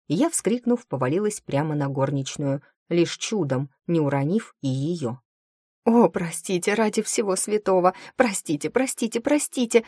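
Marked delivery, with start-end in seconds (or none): 5.9-9.8 lamenting. A narrator's reading. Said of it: "запричитала я".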